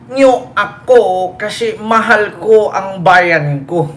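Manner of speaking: slow, solemn mock English; mocking Digong's slow patriotic English; Digong impression. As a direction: drag out each word like a grand speech. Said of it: "Gaya ko nga boses".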